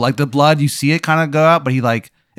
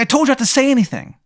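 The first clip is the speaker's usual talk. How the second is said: high squeaky tattoo creature; 12 semitones higher, faster than usual. Acted. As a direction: pitch way up as the angry little tattoo. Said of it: "It's like".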